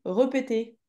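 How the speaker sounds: "repeter" opening on schwa, re- not ré-; misspelt reading. Shown as a demonstration. Teacher reads what the pupil wrote, demonstrating the error. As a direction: read "repeter" as if the first accent were missing. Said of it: "Là, t'as écrit repeter".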